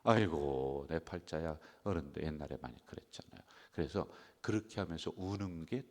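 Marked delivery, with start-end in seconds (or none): 0.0-1.6 loud 아이고 then sinking lament; a hint of chest-beating wail; mock wail. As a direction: imitate an old-style wailing lament. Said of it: "가슴을 치면서".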